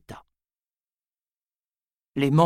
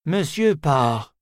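slow, cold and measured address; a chilly, formal greeting drawn out; icy voice; 5 dB louder, slower than usual. Acted. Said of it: "d'une voix glacée". (voix glacée et lente)

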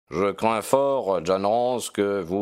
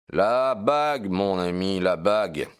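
emphatic revelation. Acted. Detective explaining to his friend why the criminal returned, emphatic. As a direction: press the answer home to a friend. Detective reveals the key clue.

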